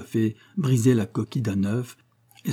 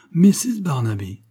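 high, slow, breathy exclamation of her name; surprised cry with a smile; 5 semitones higher, 4 dB louder than usual. A narrator's reading. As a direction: greet her with amused surprise. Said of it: "s'écria-t-il avec un sourire". (exclamation surprise amusée, aiguë et lente)

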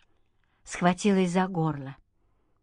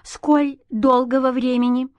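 pressing; 5 semitones higher, 4 dB louder than usual. A narrator's reading. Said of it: "допытывалась Анна Юрьевна".

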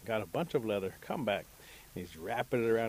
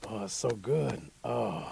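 contented; slower than usual. Acted. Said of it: "he's patting his belly".

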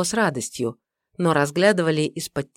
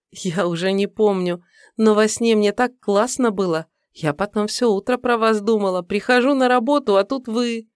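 put-on young woman voice; 5 semitones higher than usual. Secretary voiced by narrator.

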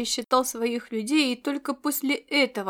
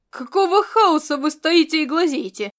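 higher, loud, outraged yell; indignant outburst; 5 semitones higher, 7 dB louder than usual. Acted. Kovdori yelling at his idle soldiers, outraged and loud. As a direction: blast the gawkers with outrage. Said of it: "возмутился Ковдори".

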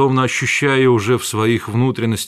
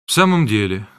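ordinary delivery, nothing marked

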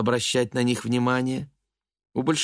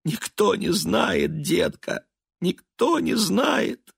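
высоким надрывным голосом сквозь слёзы; причитай, плача; 10 semitones higher, 4 dB louder than usual. A narrator's reading. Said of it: "Элиза заплакала". (Элиза плачет перед сыном, высоко и надрывно)

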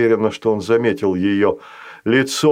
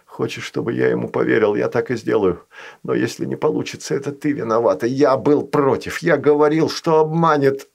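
mumbled. Acted. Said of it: "пробубнил стажар".

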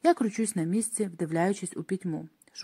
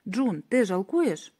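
slow, eerie, lightly warped question; distorted voice; much slower than usual. Acted. Athena's distorted voice pressing June for regret. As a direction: draw it out like a voice not her own. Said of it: "Голос знову спотворений".

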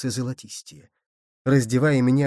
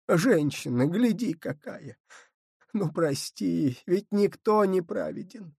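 higher, softer, pleading earnestly; quiet, fervent plea; 5 semitones higher than usual. A narrator's reading. Grandmother on her knees begs grandfather to forgive their daughter, soft and fervent. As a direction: beg him gently but with all your heart. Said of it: "тихонько, но жарко говоря".

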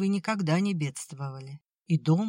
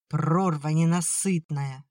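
slow, bitter angry jab; heated outburst. Acted. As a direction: spit it out in exasperation. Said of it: "в сердцах бросила мать".

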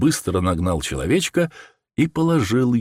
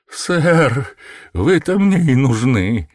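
higher and louder eager exclamation; a nervous man crying out in relief; excited cry; 7 semitones higher, 4 dB louder, slower than usual. A narrator's reading. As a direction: burst out with desperate hope. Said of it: "вскричал человек".

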